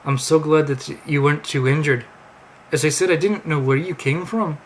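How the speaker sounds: put-on terrible Amish accent. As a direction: tell it amazed in a fake Amish voice. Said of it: "my terrible Amish accent".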